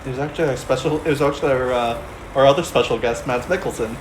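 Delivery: put-on Danish accent. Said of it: "your Boston accent".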